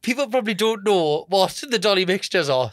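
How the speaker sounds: giggling through the words; can't stop giggling while talking; giggly. Real, not acted. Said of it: "Sorry, I've got the giggles".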